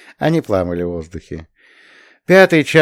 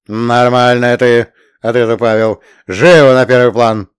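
urging; 7 dB louder than usual. A narrator's reading. Pavel urges her.

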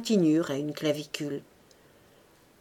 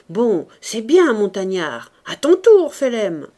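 ringside encouragement; 2 semitones higher, 8 dB louder than usual. A narrator's reading. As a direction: cheer the fighters on. Ringside cheers repeated in French. (encouragements lancés au boxeur)

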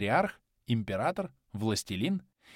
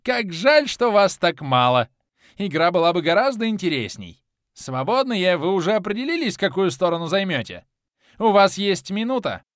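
high, loud gleeful madman; crazed villain, much higher and louder; mad god; 8 semitones higher, 9 dB louder than usual. A narrator's reading. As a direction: gloat over the coming slaughter. Mad god taunts free players.

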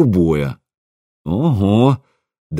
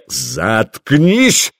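higher-pitched angry shout of shut up; roaring; 6 semitones higher than usual. A narrator's reading. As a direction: snap it out as a furious command. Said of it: "взревел боярин".

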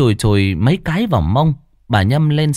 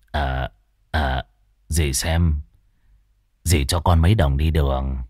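wheedling nephew; 8 semitones lower than usual. Acted. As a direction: sweet-talk the aunt for money. (nài nỉ giọng trầm)

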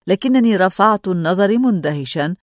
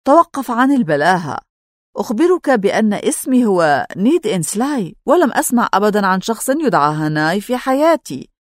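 indignant, raised voice; angry. Acted. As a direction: snap back in anger. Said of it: "غضبت غضبا شديدا".

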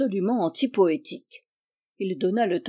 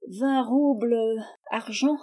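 higher, thin tart voice; slightly sour voice; 3 semitones higher than usual. A narrator's reading. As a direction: query it in a sharpish, vinegary little voice. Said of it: "dont la voix aigrelette".

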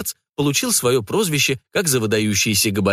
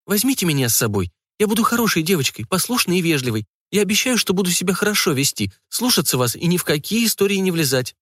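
put-on higher, childlike begging; plaintive pleading; 6 semitones higher than usual. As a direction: beg like a good little girl. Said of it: "я жалобно взмолилась".

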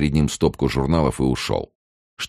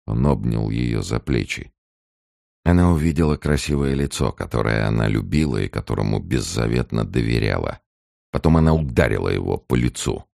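ordinary delivery, nothing marked

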